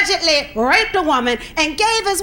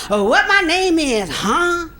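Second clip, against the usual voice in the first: mimicking young dudes; slower than usual. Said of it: "don't they ask you the most redundant questions".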